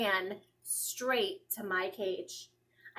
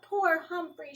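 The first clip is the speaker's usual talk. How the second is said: tender pity; 5 semitones higher, 4 dB louder than usual. A narrator's reading. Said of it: "she said, hugging me".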